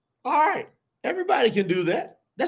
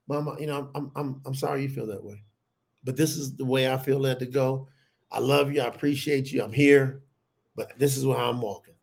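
calm reassuring; 5 semitones lower, 3 dB quieter than usual. Retold or imitated. Calm reply to screaming mother.

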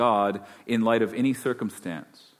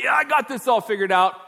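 mock smug boast, much higher and louder; proud know-it-all; 10 semitones higher, 4 dB louder than usual. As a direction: puff up like someone who has it all figured out. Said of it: "stand up tall and proud and go like".

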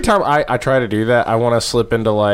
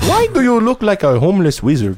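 mocking taunt; 6 semitones higher than usual. Roast taunt voice.

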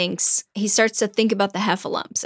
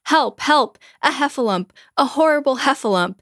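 panicked yelling; 6 semitones higher than usual. Acted. Piglet yelling at the trapped bear in mock panic. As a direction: yell it in a mock panic, tripping over the words. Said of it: "he yells".

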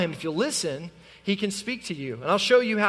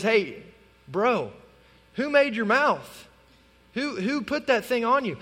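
casual God voice; 4 semitones higher than usual. Acted.

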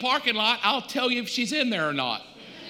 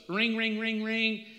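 imitated phone ring; 3 semitones higher, 5 dB quieter, slower than usual. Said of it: "This is how it goes".

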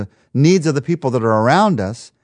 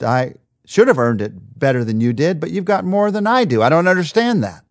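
discouraged complaint; 4 semitones higher, 3 dB louder than usual. Acted. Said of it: "it's so easy to get discouraged".

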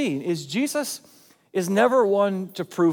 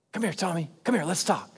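softer, kindly invitation; gentle; 4 dB quieter, faster than usual. Acted. Jesus drawing Thomas aside to talk, gentle. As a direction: coax him aside gently. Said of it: "that Jesus is gentle".

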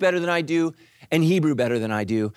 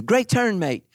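Australian car voice; 4 semitones higher than usual. Retold or imitated. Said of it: "a female from Australia".

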